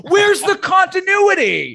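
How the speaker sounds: shouted high, slowly, hamming up the indignation; mock outrage. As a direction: bellow it like an outraged critic. Mock outrage at film's plot holes.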